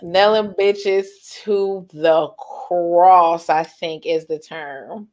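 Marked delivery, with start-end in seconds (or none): 0.0-3.5 slow, deliberate wording; drawn-out quote. Retold or imitated. Quoting the term she used, drawn out. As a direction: stretch each word out slowly.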